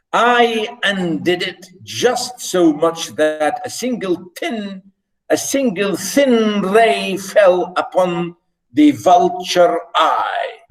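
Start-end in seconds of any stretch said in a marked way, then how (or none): 1.8-10.6 dramatic slow build. Acted. Dramatic reading of the vulture eye.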